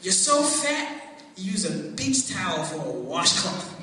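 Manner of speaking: a hint of a loud schoolyard taunt; bully's joke. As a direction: deliver the fat joke like a smug bully. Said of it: "here comes the joke".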